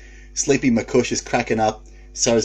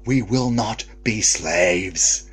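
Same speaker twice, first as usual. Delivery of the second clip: mild mock scream; much slower than usual. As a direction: draw out each word like a rallying cry. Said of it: "I'd scream at those cowards".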